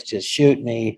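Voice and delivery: a real laugh breaking through the words. Real, not acted. Laughing while listing roles he turned down. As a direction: chuckle it out, amused at the missed chance.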